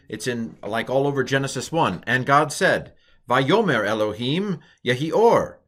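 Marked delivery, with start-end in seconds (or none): 3.3-5.6 "Vayomer Elohim Yehi Or" read out with a long fall on "Or"; Hebrew recitation. Shown as a demonstration.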